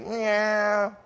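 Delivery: soft, drawn-out engine whine; motorcycle zooming past. Retold or imitated. Preacher mimics a speeding bike on the interstate, fading whine. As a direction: imitate a bike receding into the distance. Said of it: "doing, like, eighty-five miles an hour".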